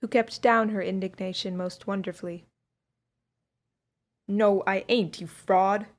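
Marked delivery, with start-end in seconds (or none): 4.3-5.9 roared. A narrator's reading. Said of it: "roared out the driver in a passionate manner".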